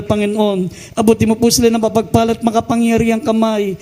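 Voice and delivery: rising, pleading prayer voice; fervent prayer. Acted. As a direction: pray over the people with fervour. Leads a congregational prayer.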